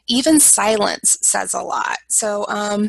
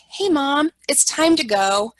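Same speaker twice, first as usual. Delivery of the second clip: light cheerful invite; 4 semitones higher than usual. Shown as a demonstration. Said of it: "So I might say something like".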